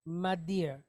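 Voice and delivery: madir said in two quick syllables; Israeli pronunciation. Shown as a demonstration. Teacher repeats the Israeli form madir for students. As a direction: fold the vowels into one, madir. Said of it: "in an Israeli fashion".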